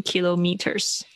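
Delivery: kilometers said as KILO-meters; alternative pronunciation. Shown as a demonstration. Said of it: "很多同学会选择念kilometers". (kilometers念成kilo加meters)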